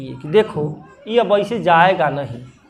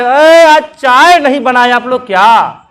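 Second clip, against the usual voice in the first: shouting for tea; 2 semitones higher, 6 dB louder than usual. Retold or imitated. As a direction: bellow for the morning tea, annoyed. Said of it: "चिल्ला रहा है".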